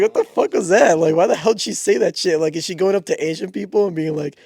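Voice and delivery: venting disbelief at the clerk; retold outrage.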